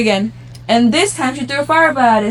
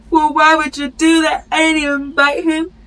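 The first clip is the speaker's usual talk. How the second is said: tearful complaint, acted out; mock crying; 3 semitones higher than usual. Lion whining to the one who bopped his nose, mock crying. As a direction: sob first, then a higher, slow wail. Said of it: "the lion started crying".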